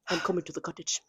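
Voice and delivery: low, soft, understated line; murmured, intimate quote of the show; hushed quote. Retold or imitated. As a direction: drop right down low and quiet. Quotes show line after loud reading.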